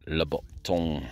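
whispering. Real, not acted. Quiet find commentary, whispered.

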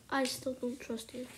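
suspicious whisper. Real, not acted. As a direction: whisper your distrust. Suspicious aside.

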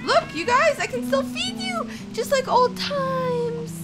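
very high, loud coaxing of little ones; eager coaxing. Pretend. Mother offering to feed her cubs, high eager coaxing. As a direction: squeal it to lure them back.

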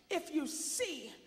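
slow, deliberate motherly instruction; slow mock advice to sons. Mother telling her sons what to do near a perverted man, slow and deadpan. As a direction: tease them with a straight face. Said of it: "And I told my sons".

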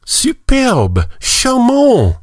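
high, delighted French exclamations; gushing court ladies. Acted. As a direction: gush like fussy court ladies. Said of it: "exclaimed the ladies".

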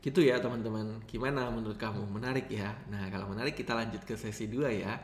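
monotone, slightly subdued delivery; drained of intonation; flat intonation. Shown as a demonstration. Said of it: "tanpa intonasi atau intonasinya datar".

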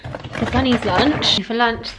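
usual speaking voice

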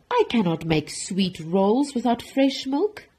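distressed cry. Acted. Baker lamenting he has no milk, distressed cry. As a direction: fret aloud in dismay. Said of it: "cried Walter".

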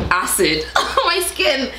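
slow, with a laugh in the middle. Real, not acted. Joking to viewers about her melting face, laughing. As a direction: laugh at your own joke.

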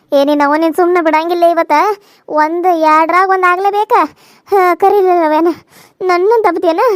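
loud, furious scolding; angry shout. Acted. Daughter-in-law yelling at her mother-in-law in anger. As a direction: yell at her to pick a fight.

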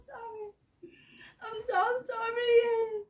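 drawn-out sorry through giggles; slow, giggly whine of an apology; laughing apology. Real, not acted. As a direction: apologise while trying not to laugh. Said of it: "And laughing".

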